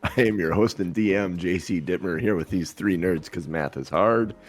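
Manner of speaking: rough morning-after voice; hungover voice. Real, not acted. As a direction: speak with a hungover rasp. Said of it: "laughing at my hungover voice".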